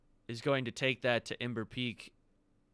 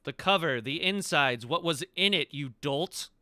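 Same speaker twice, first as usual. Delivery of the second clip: exasperated scolding; 3 semitones higher, 4 dB louder than usual. Acted. Impatient questioner scolds the dolt over the book, exasperated.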